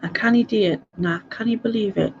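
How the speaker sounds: casual Glaswegian demonstration; Glaswegian dialect. Shown as a demonstration. Giving examples of Glasgow speech, Glaswegian accent. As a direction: say it as a Glaswegian would, with canny for can't. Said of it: "A Glaswegian would say canny".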